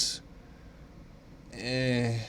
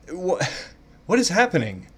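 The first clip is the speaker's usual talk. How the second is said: higher, laughing bewildered question; a giggling what is happening; laughing confusion; 6 semitones higher, 4 dB louder than usual. Real, not acted. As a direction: laugh through total confusion.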